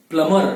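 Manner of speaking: प्लम्बर said as plumma, b silent; correct pronunciation. Shown as a demonstration. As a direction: say प्लम्बर without the b. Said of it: "प्लम्बर बोलना है". (प्लम्बर बिना b के, प्लमर)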